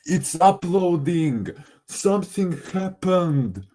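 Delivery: high, excited announcement. Real, not acted. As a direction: call it out, thrilled. Upload suddenly works, calling out.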